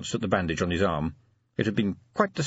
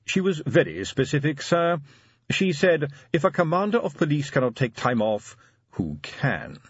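insistent butler; 7 semitones higher than usual. A narrator's reading. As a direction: insist politely by quoting the lady. Butler insists, quoting the lady.

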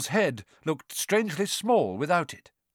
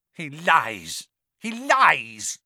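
accusing cry building higher and louder; high eerie voice; 5 dB louder, much slower than usual. A narrator's reading. Hidden master exposing the boy, high and accusing. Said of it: "a high voice spoke".

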